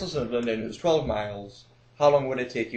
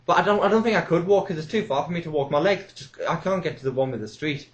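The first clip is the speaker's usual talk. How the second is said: put-on elderly woman caller; 4 semitones higher than usual. Old caller telling the DJ she can't walk, fretting. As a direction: fret about walking like a frail pensioner. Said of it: "And then".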